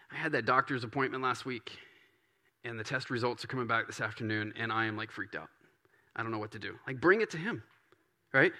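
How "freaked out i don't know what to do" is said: hushed, much softer worried confession; worried prayer. Acted. Voicing a worried believer praying to God, hushed and fearful. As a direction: drop it down like a scared confession.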